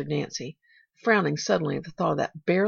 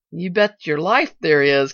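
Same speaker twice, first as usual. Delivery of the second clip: Timothy cutting in; 9 dB louder, slower than usual. A narrator's reading. Driver assuring the child she has an aunt, emphatic. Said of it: "cut in Timothy".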